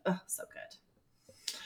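almost whispered, slow sigh of delight; swooning half-whisper; breathy swoon. Real, not acted. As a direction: let it melt out of you on a long breath. Swooning over the episode.

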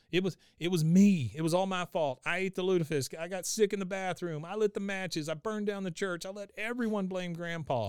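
high-pitched, hurried confession; Bobby. Retold or imitated. Bobby confesses to the family, high urgent outpouring. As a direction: imitate a boy blurting it all out. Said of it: "he's still panting, panting".

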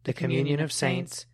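reverberant church acoustics; cathedral echo. Real, not acted. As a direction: voice ringing through a stone nave. Creed recited in reverberant church.

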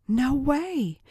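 high, astonished outburst; disbelieving exclamation. A narrator's reading. Tracy hears about the key, astonished exclamation. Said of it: "explained Tracy".

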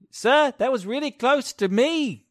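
high, loud squeaky complaint; squeaky NPC voice. Acted. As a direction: whine it like a nervous little creature.

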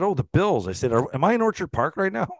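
high, wide-eyed fake innocence; mock clueless. Teasing the lady in line, mock clueless. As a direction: play dumb to tease her. Teasing woman, feigning ignorance.

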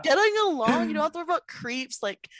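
high bubbly gush about the club; gushing excited. Retold or imitated. Telling her boyfriend how great the club was, high excited gush. Imitating herself at gay club.

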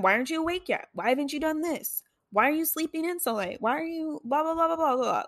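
high-pitched mock parental nagging; nagging mom. Mom coming into the room to wake her, high mock nagging. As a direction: imitate mom badgering, dissolving into blah-blah.

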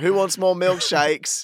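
high, loud, stretched-out offer; drawn-out vendor's call. Retold or imitated. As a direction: imitate an eager kid hawking seconds. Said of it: "I was like".

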